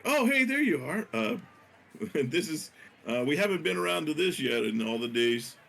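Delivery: bright high-pitched party guest; cheery high driver voice. Acted. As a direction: chirp it out like a cheerful carrot driver. GM voices drivers meeting her.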